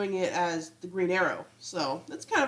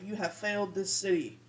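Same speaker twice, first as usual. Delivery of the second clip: lightly voiced Oliver's gruff hero line, a touch softer; Arrow catchphrase; 4 dB quieter than usual. Oliver playing the Flash, using his old Arrow line, mock-serious. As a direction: quote it like a mock vigilante threat. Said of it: "the Arrow line of".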